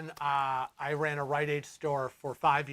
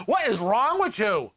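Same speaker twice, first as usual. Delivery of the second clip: mock exasperated; 6 semitones higher, 6 dB louder than usual. Yelling at rude shopkeeper, imagined.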